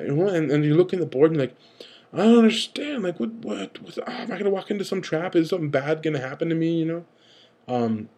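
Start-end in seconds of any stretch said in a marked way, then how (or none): 2.1-6.8 mock panic. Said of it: "you're just kinda freaking out".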